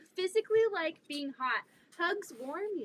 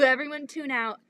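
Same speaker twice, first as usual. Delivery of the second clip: usual speaking voice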